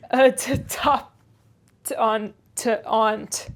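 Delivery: put-on slow broad Yorkshire old man; slow thick Yorkshire grumble; crusty Yorkshire servant. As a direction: grudgingly show the room in thick dialect. Joseph's dialect speech.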